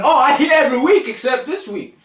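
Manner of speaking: high mock proclamation; mimicked wrestler. Mimicking a wrestler noting Cena's absence, hammed-up.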